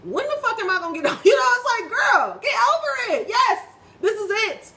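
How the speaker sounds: loud, high, fed-up yell; exasperated outburst. Real, not acted. Woman telling herself to get over it, exasperated shout. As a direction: shout it at yourself to snap out of it.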